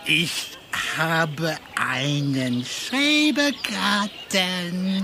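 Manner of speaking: slurring tipsy speech; drunk. Acted. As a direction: talk like you've had too many beers. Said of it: "Du bist betrunken".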